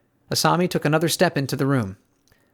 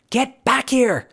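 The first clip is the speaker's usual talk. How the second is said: much higher call after the fleeing dog; 12 semitones higher, slower than usual. A narrator's reading. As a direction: call her back down the hall. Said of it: "Asami called after her".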